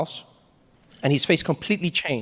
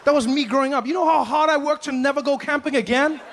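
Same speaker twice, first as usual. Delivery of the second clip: laughing disbelief; 6 semitones higher than usual. Retold or imitated. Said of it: "I'm like".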